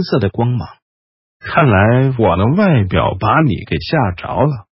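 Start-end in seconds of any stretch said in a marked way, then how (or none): 1.4-4.7 嘶哑低语. Acted. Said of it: "雷斯林嘶哑地说道".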